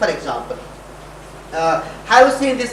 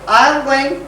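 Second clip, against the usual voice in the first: "I" raised high as the accented word; accent mark on "I", voice lifted; stress on I; 4 semitones higher, 4 dB louder, slower than usual. Shown as a demonstration. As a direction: hit "I" first, high and firm. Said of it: "accent mark".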